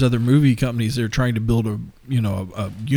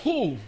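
startled ooh; 13 semitones higher, 6 dB quieter than usual. Real, not acted. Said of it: "that totally caught me off guard".

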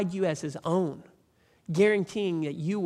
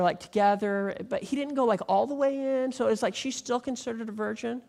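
lightly voiced girl, higher, halting; a hint of a nervous teen asking for a friend; hesitant young girl; 4 semitones higher than usual. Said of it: "the girl that came to me and she was like".

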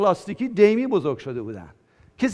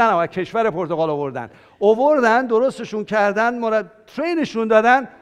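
excited preaching; 2 semitones higher, 5 dB louder than usual. Real, not acted. Preacher telling the congregation the good news, excited. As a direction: build enthusiasm to the crowd.

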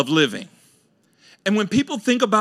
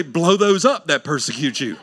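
laughing mock quote. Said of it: "We say".

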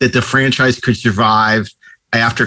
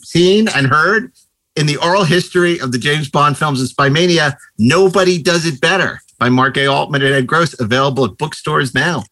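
book plug. Pretend. Scripted-sounding book plug on cue.

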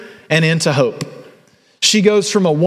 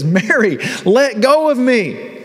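gentle voice of Jesus; 7 semitones higher, slower than usual. Acted. Jesus speaks to Mary.

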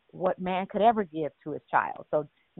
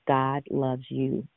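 slow, deliberate; 4 semitones lower, much slower than usual. Shown as a demonstration. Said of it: "I'm gonna say it again".

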